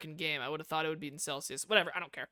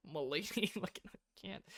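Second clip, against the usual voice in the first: ordinary delivery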